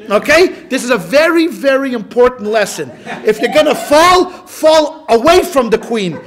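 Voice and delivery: loud, through laughter, preaching the joke; 1 mock-serious lesson. Real, not acted. Rabbi giving a joking moral to laughing listeners, loud and gleeful. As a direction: deliver the silly moral with glee.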